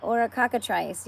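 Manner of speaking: police chief yelling in alarm; yelled. A narrator's reading. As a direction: shout it out in a panic. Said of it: "yelled the chief of police".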